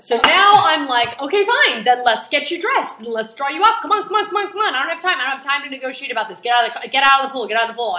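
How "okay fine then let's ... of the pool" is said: high, rapid-fire hurrying; frantic mother. Retold or imitated. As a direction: rush the kid along, losing patience. Stressed mother rushing kids along.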